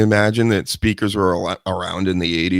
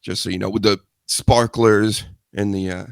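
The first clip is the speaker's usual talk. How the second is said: winded after a workout; out of breath. Real, not acted. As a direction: talk while catching your breath. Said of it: "I'm all out of breath".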